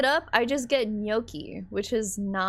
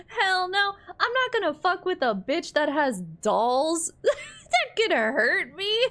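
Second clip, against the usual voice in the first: high, loud protest through laughter; laughing refusal; 9 semitones higher, 3 dB louder than usual. Real, not acted. Player refusing to cross the doll owner, laughing protest. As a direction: refuse loudly, half laughing, half wailing.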